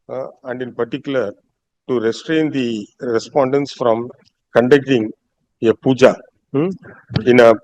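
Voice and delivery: dictating a court order. Acted. Judge dictates order for record.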